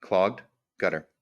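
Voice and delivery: slowed, spelled-out dictation to the phone; slow careful dictation. Shown as a demonstration. Retrying voice search on phone, slow and careful. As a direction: say each word slowly so the phone catches it. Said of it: "See, it likes to play with me".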